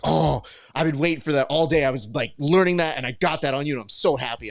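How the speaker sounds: playful imitation of a proud training partner; gleeful friend. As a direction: imitate a buddy gloating over his armbar. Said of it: "and he's like".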